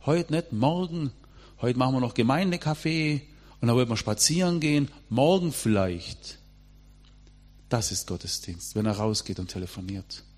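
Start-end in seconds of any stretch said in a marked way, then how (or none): 0.1-6.4 devil's excuse. Retold or imitated. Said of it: "Lieblingswort des Teufels".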